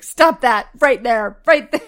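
loud, laughing, slowed-down quote. Retold or imitated. Retelling a favorite movie line, loud and laughing. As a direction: belt the line out through laughter. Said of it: "It's like".

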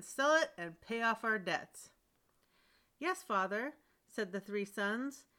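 steady storyteller reading a tale; story narration. A narrator's reading. Reader telling a troll tale to an audience, storytelling voice. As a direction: read it like a bedtime story for listeners. Reads a folk tale aloud.

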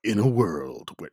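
lightly voiced trailer announcer; a hint of movie-trailer narrator; movie guy voice. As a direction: slip briefly into a film trailer read. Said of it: "once you pull the voice actor out".

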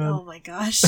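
whispering. Real, not acted. Shocked aside at innuendo.

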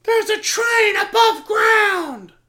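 put-on high, slow shouted Russian accent. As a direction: yell it like a panicked Russian. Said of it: "But in a Russian accent".

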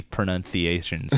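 "pronunciations" with th for the c; slow, deliberate lisp in "pronunciations"; joking Castilian lisp. Shown as a demonstration. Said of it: "the Barcelona lisp".

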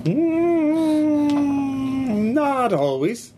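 put-on grandma with a Russian accent; old Russian grandmother voice. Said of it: "She says in a Russian accent".

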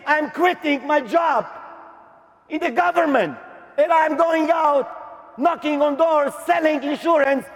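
retold defiant announcement. Announcing quitting to his father.

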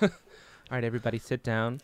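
lightly voiced public-radio drill instructor; calm host calling a class to order; Ira Glass drill leader. Ira Glass opening his boot camp in a mild radio voice. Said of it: "the Ira Glass boot camp".

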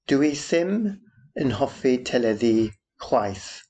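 Dwi ddim yn hoffi teledu chwaith, slow and carefully spelled out; careful Welsh. Shown as a demonstration. Duolingo learner showing listeners her Welsh, slow and careful. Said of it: "which means I don't like television either".

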